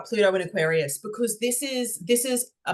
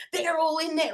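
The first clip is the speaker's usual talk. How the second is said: retold excitement; 11 semitones higher than usual. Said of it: "She's like".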